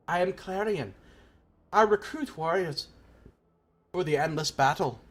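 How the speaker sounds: put-on Clarion, earnest recruiter in assumed accent; accented game warrior making a pitch; put-on character accent. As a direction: declare yourself in a lightly put-on accent. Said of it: "the accent I'm trying to do".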